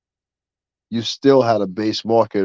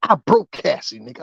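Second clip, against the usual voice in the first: mock Rich Dollars; 9 semitones higher than usual. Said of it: "He said".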